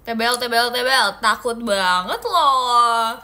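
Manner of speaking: excited exclamation. Real, not acted. Reacting to something thick.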